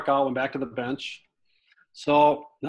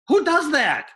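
amazed exclamation; 11 semitones higher, 4 dB louder than usual. Real, not acted. Marvelling at the manager.

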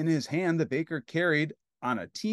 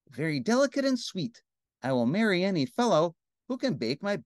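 higher-pitched, delicate princess voice; dainty princess; 4 semitones higher than usual. Acted. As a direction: play a tiny, picky princess. Princess's lines in read story.

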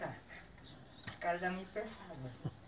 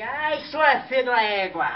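slow, loud cursing of the mare; hammed-up telling-off; comic insult of the mare; mock scolding; 2 semitones higher, 5 dB louder, slower than usual. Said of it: "eu xinguei ela e falei".

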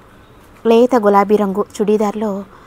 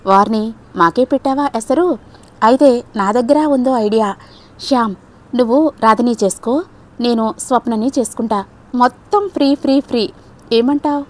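playful. Acted. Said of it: "అడిగాను అల్లరిగా".

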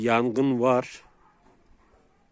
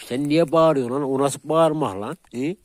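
louder, higher telling-off of the dog; scolding shout; 5 semitones higher, 6 dB louder than usual. Real, not acted.

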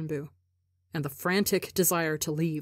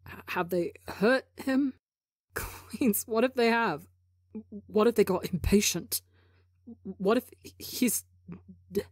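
higher, breathless, panicked questions; rising panic; 4 semitones higher than usual. A narrator's reading. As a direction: spiral into fear mid-sentence. Tubbo spiralling into panic.

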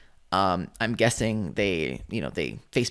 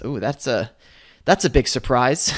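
mock-surprised sarcasm; sarcastic; 5 dB louder than usual. Real, not acted. Host mocking a forum post about no sales, sarcastic. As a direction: feign amazement, dry and teasing. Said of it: "I'm being sarcastic".

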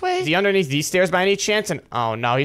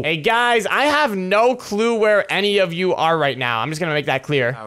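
talking oddly. Pretend. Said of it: "why are you talking like that?".

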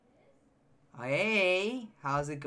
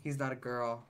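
mocking viewers; 5 semitones lower, 8 dB quieter, much slower than usual. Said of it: "Y'all really be like".

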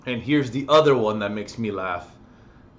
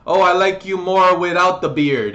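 critical friend; 6 semitones higher, 6 dB louder than usual. Retold or imitated. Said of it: "They'll be like".

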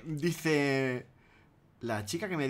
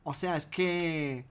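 imitating the woman; 4 semitones higher than usual. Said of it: "era una tía que dice".

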